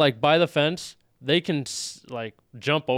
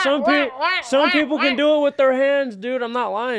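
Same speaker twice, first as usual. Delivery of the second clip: insistent; 10 semitones higher, 7 dB louder than usual. Real, not acted. Defending himself loudly.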